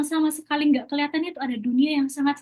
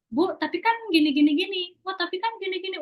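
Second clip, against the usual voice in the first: mildly argumentative, higher-pitched retelling; retold protest; 6 semitones higher, faster than usual. Student arguing with the science teacher, mock protest. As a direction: lightly imitate a student objecting, pitched higher.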